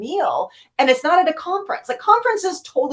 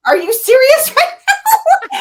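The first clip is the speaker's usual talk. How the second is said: incredulous excitement; 11 semitones higher, 6 dB louder, slower than usual. Retold or imitated. Friend doesn't know Gaiman.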